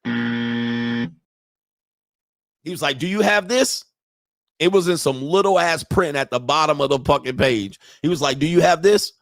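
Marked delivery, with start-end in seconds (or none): 3.0-3.8 high, rising challenge; demanding judge. Retold or imitated. Judge asking about the missing document, pointed. Judge questioning him, retold. 8.4-9.1 louder, higher pointed question; demanding judge. Retold or imitated. Judge pressing him about the document, insistent.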